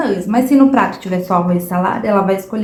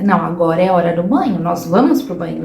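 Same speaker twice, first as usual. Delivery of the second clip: lower, steady, calm and firm; 5 semitones lower than usual. Shown as a demonstration. Parent telling the child it is bath time, lower calm firm voice. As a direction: set the rule without heat, lower and steady. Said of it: "Você precisa ser firme".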